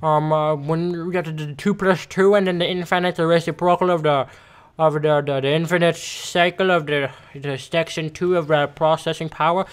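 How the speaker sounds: mock rambling lecture voice; lightly voiced confusing teacher; imitating the teacher. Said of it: "she talks like".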